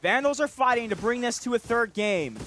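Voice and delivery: high, loud match call; excited play-by-play. Real, not acted. Caster praising a good one from Goat, excited. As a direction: project over the action, thrilled by the round.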